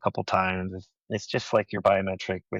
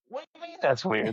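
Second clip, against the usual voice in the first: very high, incredulous question; mock-offended retort; 13 semitones higher than usual. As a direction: protest to the kids in comic disbelief. Retold retort to teasing kids.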